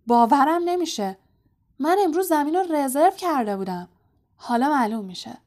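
loud, high furious outburst; angry. A narrator's reading. Captain furious that his booked pitch is taken, loud outburst. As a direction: explode at the intruders. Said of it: "وود با عصبانیت گفت".

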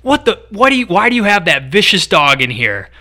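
imitating the startled old neighbor; angry neighbor. Retelling the neighbor's rant, mock outraged. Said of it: "being like".

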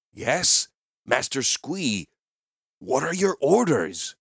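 prompting, lilting character voice; playing along. A narrator's reading. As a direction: encourage the goblin with mock deference. Gerard prompts the goblin, playing along.

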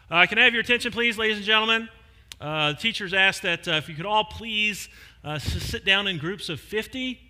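mock announcement. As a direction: call out politely to the whole crowd. Spokesperson addresses the crowd.

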